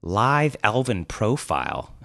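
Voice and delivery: drawn-out mocking question; derisive. Thief mocking the posing elf, derisive. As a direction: throw it back with scorn. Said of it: "the thief snorted derisively".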